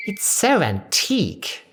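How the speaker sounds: put-on lost with an old phone; flummoxed. A narrator's reading.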